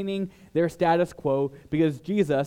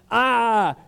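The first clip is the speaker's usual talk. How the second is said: much higher, louder accusing cry; hammed-up denouncer rousing the crowd; mock outrage; 9 semitones higher, 6 dB louder than usual. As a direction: whip up the crowd against him. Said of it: "they're gonna be like".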